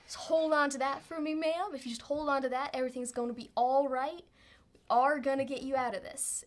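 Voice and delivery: mildly reassuring cowboy; calm authority. Acted. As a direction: gently take charge and reassure. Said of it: "just some calm and authority".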